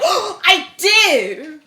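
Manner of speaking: high, loud, drawn-out fake-German exclamation; bad German accent. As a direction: gush it as a hammed-up German. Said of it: "he's like".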